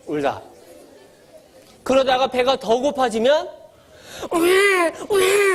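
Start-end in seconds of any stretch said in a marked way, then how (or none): 4.3-5.5 put-on high whiny baby cry; imitating a fussy infant crying high; mock baby wail. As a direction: wail like a cranky newborn.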